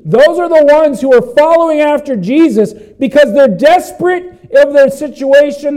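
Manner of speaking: high, loud, building insistence; impassioned preaching. Real, not acted. Preacher on the needy following Jesus, impassioned and loud.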